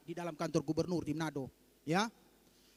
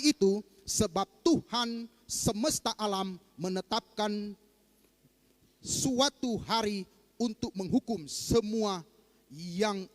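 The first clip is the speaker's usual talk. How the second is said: slow, solemn Bible reading; scripture reading; slower than usual. Acted. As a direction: read the verse slowly and weightily. Reading scripture aloud in sermon. (membaca ayat Alkitab dengan lambat dan khidmat)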